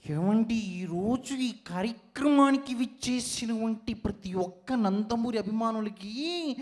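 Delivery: lightly put-on celebrity greeting voice; mimicry voice. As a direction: greet the fans in a slightly put-on voice. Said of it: "unique mimicry concept". (కొంచెం మార్చిన mimicry గొంతు)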